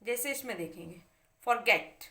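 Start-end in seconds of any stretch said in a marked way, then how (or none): 1.5-2.0 फॉरगेट with weight on गेट; stress on last syllable. Shown as a demonstration. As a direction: lean on the final गेट in फॉरगेट. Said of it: "पीछे वाले पे जोर पड़ेगा".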